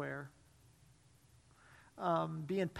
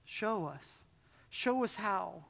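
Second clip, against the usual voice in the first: matter-of-fact prayer; 4 dB quieter, slower than usual. A narrator's reading. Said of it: "said so matter-of-factly".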